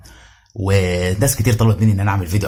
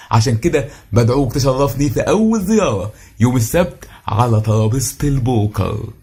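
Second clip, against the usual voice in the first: smooth flattering host. Retold or imitated. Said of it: "قاموا بأدوار اليهود في المسلسلات".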